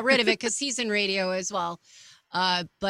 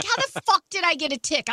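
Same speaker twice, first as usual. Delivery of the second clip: exasperated disbelief; 7 semitones higher than usual. Retold or imitated. Retelling her disbelief.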